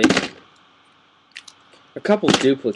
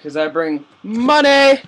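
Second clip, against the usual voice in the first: high goofy character voice; silly joke voice; 9 semitones higher, 4 dB louder than usual. Pretend. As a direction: put on a high silly voice for the punchline. Joke about Benjamin Franklin pants.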